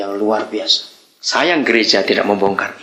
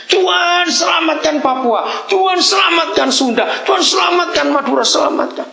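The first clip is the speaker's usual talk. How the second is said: mock shouted prayer. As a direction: cry out to God like an intercessor. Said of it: "Semua doanya adalah". (doa syafaat yang diteriakkan dengan lantang)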